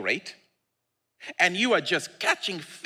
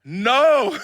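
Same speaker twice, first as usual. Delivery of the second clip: flat no; 7 semitones higher, 6 dB louder than usual. Acted. Voicing disciples' answer.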